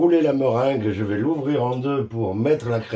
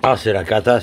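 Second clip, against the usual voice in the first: louder, exasperated "c'est la cata"; loud exclamation; 5 dB louder than usual. Real, not acted. Cook exclaiming at ruined cream, loud and exasperated.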